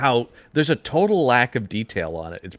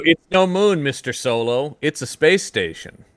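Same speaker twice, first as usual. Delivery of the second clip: comic quote; 4 semitones higher than usual. Retold or imitated. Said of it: "That's where it is, though".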